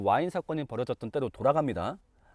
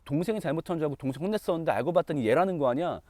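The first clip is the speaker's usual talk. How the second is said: ordinary delivery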